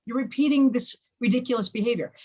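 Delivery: acted-out self-reproach; incredulous self-scolding. Parent scolding herself from outside her body, incredulous. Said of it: "come out of your body and looked down and said".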